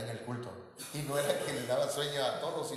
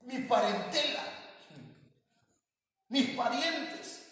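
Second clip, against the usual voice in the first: prophet's lament; 8 semitones higher than usual. Retold or imitated. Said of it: "que dice".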